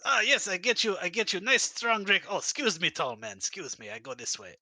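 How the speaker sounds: eager then fading as he scurries; high broken English, trailing off; dictator voice. Acted. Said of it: "this dictator voice".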